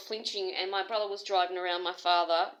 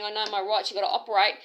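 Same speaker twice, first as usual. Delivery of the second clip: louder, insistent demand; a mock yelling patient; imitated screaming; 6 dB louder, faster than usual. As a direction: shout your rights at staff. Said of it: "she was screaming her head off".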